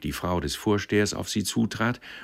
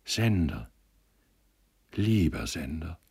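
tender, lingering remembered call; gentle, dreamy echo of her words; sweet soft voice. A narrator's reading. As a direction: dwell gently on the name. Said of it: "nur die holde, weiche Stimme".

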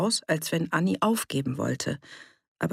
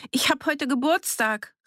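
high, raised call; pitched-up announcement to those inside; 10 semitones higher than usual. A narrator's reading. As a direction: shout it through the door. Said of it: "rief sie".

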